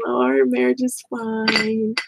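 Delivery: stretched-out pretend contentment; mock assurance. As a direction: lightly imitate a person covering up. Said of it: "And then some people lie".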